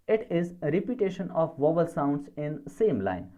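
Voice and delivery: very slow, word by word; spaced-out dictation read. Shown as a demonstration. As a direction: dictate it so students can write. Teacher dictating a definition.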